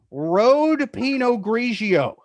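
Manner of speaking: slow, drawn-out gravelly delivery. Shown as a demonstration. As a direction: announce the wine slowly with gravel in the voice. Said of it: "only say it with a gravelly voice".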